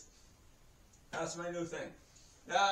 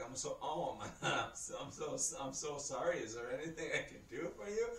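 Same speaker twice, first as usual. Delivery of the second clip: hushed apology; 3 semitones lower, 7 dB quieter, faster than usual. Retold or imitated. Nurse apologizing on noticing the accident.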